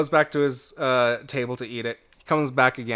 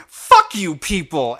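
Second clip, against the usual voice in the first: mock angry curse; 4 semitones higher, 7 dB louder, slower than usual. Customer storms off cursing.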